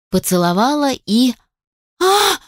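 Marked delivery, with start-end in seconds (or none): 2.0-2.4 sudden high yelp of pain; a sharp, high cry as she's hit in the eye; startled cry of pain. A narrator's reading. Woken man hits her eye, she yelps in pain. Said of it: "Взвыла от неожиданности и боли".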